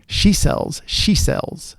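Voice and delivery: breathy test of the s sounds; whispered. Shown as a demonstration. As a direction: whisper the words, hissing each s. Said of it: "I'm gonna talk with some sibilants here".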